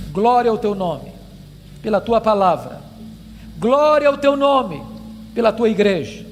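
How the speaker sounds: measured prayer in short phrases with falling ends; solemn closing prayer. Real, not acted. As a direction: pray to God phrase by phrase, reverently.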